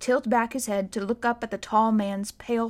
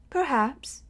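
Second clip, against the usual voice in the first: kind; 4 semitones higher than usual. A narrator's reading. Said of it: "There was kindness in Silas's voice".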